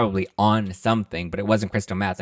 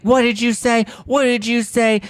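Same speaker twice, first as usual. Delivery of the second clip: much higher, louder outraged shriek; shrill retort; 5 dB louder than usual. Retold or imitated. Kyle confronts Kim in the limo, outraged shriek. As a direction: fire it back in disbelief.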